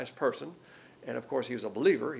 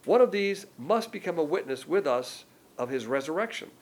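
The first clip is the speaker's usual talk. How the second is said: emphatic Bible reading, pitched a little up; scripture reading; 3 semitones higher, 4 dB louder than usual. Acted. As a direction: read the verse out to the room. Reads scripture aloud.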